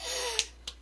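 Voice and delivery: high gasp for air; imitated gasp. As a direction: act out gasping for breath. Imitates struggling to breathe outside.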